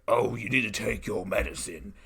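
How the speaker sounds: lightly voiced goblin nanny; hint of a monster Mary Poppins; hobgoblin nanny. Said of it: "and she's like".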